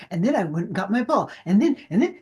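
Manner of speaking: fast, eager, excited dog chatter. Retold or imitated. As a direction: rattle it off like an overexcited pup. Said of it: "it sounded like the dog from that movie Up".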